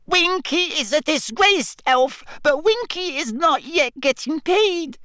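very high squeak of a house elf; indignant little elf squeak; squeaky elf voice. Acted. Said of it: "she squeaked".

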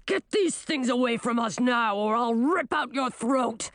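threatening beast's snarl, slowing at the end; snarling werewolf. A narrator's reading. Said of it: "snarled the werewolf".

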